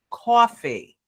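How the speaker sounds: "coffee" in a New Jersey accent, vowel drawn out like "cawfee". Shown as a demonstration. Joking to castmates about New Jersey, a drawn-out Jersey "coffee". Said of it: "a New Jersey way of saying coffee".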